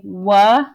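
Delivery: "wa-eb" stretched into two parts, w then eb; sounding out words. Shown as a demonstration. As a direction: stretch "wa-eb" slowly, every letter heard. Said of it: "See how I'm sounding out wa-eb".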